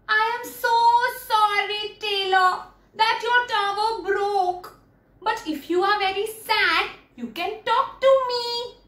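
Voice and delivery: lightly voiced, high-pitched storybook hen; a hint of high chicken voice; sympathetic chicken. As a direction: console a sad friend as a kindly chicken. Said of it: "the chicken goes to Taylor and says".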